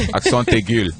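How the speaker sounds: accent aigu in French; French pronunciation. Shown as a demonstration. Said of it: "it's like French with accent".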